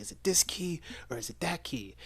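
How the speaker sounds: a hint of playful Ethan; light mock Ethan. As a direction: tease her with the shell game. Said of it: "It's like".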